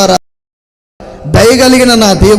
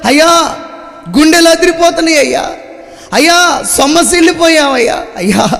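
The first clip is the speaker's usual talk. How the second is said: mock weary lament. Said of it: "ఎవరు బిగ్గరగా మొరపెట్టగలుగుతారు?".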